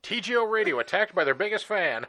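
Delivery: headline voice. Pretend. Mock headline.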